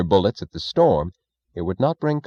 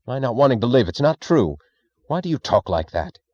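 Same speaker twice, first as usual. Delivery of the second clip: panicked protest; 5 semitones higher than usual. Acted.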